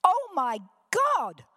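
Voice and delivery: high, loud, drawn-out mock squeal; imitated squeal. Preacher retells young woman's encounter with God, imitated squeal. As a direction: squeal it like she did, at the top of your voice. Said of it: "she squeals at the top of her voice".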